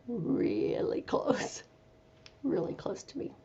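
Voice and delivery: soft, slow, breathy whisper. Real, not acted. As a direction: hush it tenderly. Describing puppy closeness.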